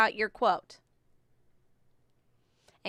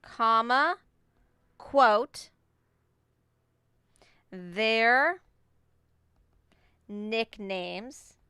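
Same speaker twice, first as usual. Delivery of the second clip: dictating; much slower than usual. Shown as a demonstration. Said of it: "I'm doing exact evidence".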